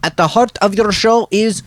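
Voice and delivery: hammed-up scolding of Jimmy; mock scolding. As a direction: tell him off, theatrically.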